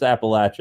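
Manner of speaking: Appalachia with a short a, ap-uh-LATCH-uh; Appalachian pronunciation. Shown as a demonstration. Proud hillbilly telling viewers how Appalachia is said, local pronunciation. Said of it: "It's pronounced Appalachia".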